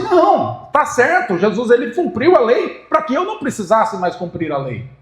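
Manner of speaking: mock objection, starting high on "Não"; imitating modern teachers. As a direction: raise the pitch as a dissenting teacher, then ease down. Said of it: "os grandes mestres da atualidade, eles falam assim".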